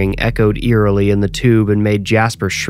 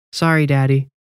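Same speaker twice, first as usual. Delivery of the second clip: lightly voiced little boy; 4 semitones higher than usual. A narrator's reading. Narrator voices young Jasper.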